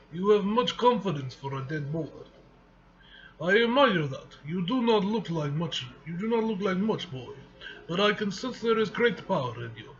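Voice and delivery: put-on light Russian accent for the villain; a hint of a Russian accent, proud and cold. Comic reader voicing villain Mikhail, light Russian accent. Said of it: "What do you think of my Russian accent?".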